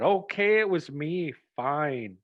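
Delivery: mock annoyed confession, fading to a sulky fine; busted and grumpy. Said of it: "she gets busted and she gets mad".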